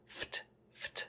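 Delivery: "Ft" as a voiceless F released straight into T; just the consonants of "Ft", no vowel, very soft; isolated FT sound. Shown as a demonstration. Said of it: "Make sure the F and T are together".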